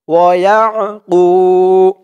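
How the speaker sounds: guttural ain in ইয়াকু; throaty ain. Shown as a demonstration. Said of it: "আইনের উচ্চারণটা কিন্তু গলার ভিতর থেকে শক্ত হয়ে আসবে".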